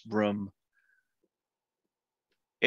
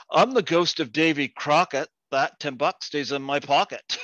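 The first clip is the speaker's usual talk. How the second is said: higher, louder punchline retort; Newfie posing as ghost; 4 semitones higher, 4 dB louder than usual. Acted. Newfie answering the ghost as Davy Crockett, bold mock ghost. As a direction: answer back boldly, raised at the start. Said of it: "The Newfie says".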